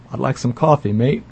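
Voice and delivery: a hint of a bad Australian accent on coffee, mate. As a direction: lightly try an Australian accent, pun on the brand. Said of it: "I can't do a good Australian accent".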